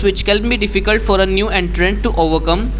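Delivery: confident model read-aloud; read-aloud demo. Shown as a demonstration. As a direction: read each sentence fluently to the full stop. Teacher reads next passage aloud.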